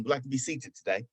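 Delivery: polite fake British accent, understated. Customer asking for a table, fake British accent. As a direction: ask softly as a pretend Brit. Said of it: "I'm talking like this".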